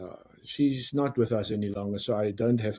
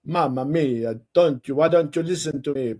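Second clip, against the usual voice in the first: Italian; 4 dB louder than usual. Pretend. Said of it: "be a little bit Italian".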